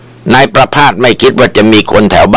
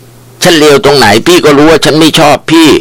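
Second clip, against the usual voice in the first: higher, slow, hurt defiance; defiant young woman; 7 semitones higher than usual. A narrator's reading. Wife answers the jilted thug, slow higher defiance. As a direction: stand up to him, wounded.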